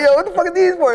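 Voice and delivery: high, loud what-are-these-for; mock outrage at the glasses; incredulous. Reacting to thick glasses.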